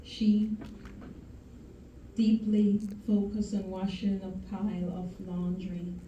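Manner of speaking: measured spoken-word delivery with long pauses; solemn poetry reading, lingering on each image; poem recitation. Acted.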